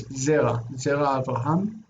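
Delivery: Zera, then Zera Avraham, with Zera keeping its own accent; model pronunciation. Shown as a demonstration. Teacher modelling the right form for the student. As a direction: say Zera with the stress on its first syllable. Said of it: "their accent stays".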